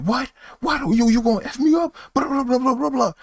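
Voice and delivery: very high squeaky mock threat; mock challenge. Guy daring narrator to fight, squeaky mock challenge. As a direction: parody his \"you gonna F me up\", way up high. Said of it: "And he's like".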